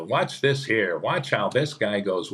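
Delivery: a hint of an old show presenter pointing things out; understated host voice; narrator impression. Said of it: "he narrated".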